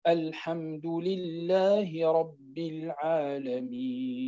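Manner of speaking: slow sung recitation, the ي in العالمين held for six counts; long vowel length. Shown as a demonstration. Teacher demonstrating six-count length for students, sung recitation. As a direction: chant العالمين with a full six-count madd on the ي. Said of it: "وأنك تقراه بالطول".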